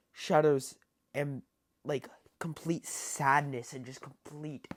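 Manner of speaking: stuttering over the words. Real, not acted. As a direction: stumble and restart mid-word. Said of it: "Sorry if I'm stuttering during this".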